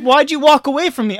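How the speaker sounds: high, loud mock outrage; hammed-up maternal fury; imitated scolding mom. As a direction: scold like a mother who chased you down. Acted quarrel, mom scolds.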